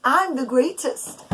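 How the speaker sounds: a smug villain laughing as he brags; gloating laugh. A narrator's reading. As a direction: crow with glee at your own greatness. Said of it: "Haman thinks in his heart".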